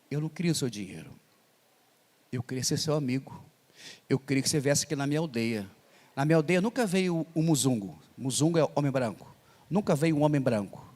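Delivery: a hint of a calm, unhurried African man; speaks calmly. Pastor imitates the African man's calm speech to the congregation, lightly calm. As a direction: say Eu não queria o seu dinheiro calmly, not rushed. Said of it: "Ele fala calmo".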